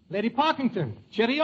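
put-on English accent. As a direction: play an eager English baronet. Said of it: "you speak with an English accent".

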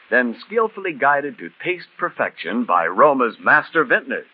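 smooth radio ad read. Acted. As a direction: sell the wine, warm and measured. Reads the sponsor's wine ad.

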